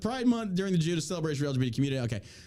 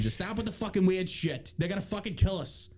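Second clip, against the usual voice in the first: put-on higher-pitched New York accent, exasperated; New York man; 4 semitones higher than usual. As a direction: beg them to quit, New York style. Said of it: "I don't know why I'm a New York man".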